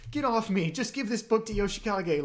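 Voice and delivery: mock a muddled, agitated brush-off; confused woman. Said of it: "like, completely confused".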